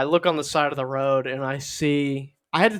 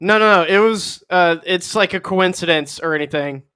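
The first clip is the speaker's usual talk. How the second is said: loud, higher protest settling down; flustered denial; 3 semitones higher, 6 dB louder than usual. Acted. Caught fibber backpedaling to the cop, flustered denial. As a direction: blurt a hammed-up backpedal.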